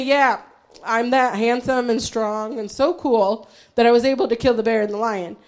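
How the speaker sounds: low, soft parody of a cocky boast; mock bragging. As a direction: toss off a self-satisfied boast, understated. Mock boast David did not make.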